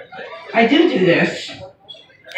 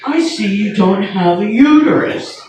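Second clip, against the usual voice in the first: doctor voice. Retold or imitated. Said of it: "all my doctors have the same voice".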